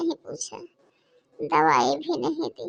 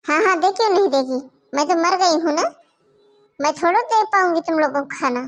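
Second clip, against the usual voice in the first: sarcastic; 4 dB louder than usual. Acted. Grandmother sarcastic to the children.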